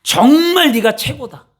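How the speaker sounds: slow, emphatic praise; praising parent. Shown as a demonstration. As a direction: cheer your child on. (자녀를 칭찬하는 따뜻한 말투)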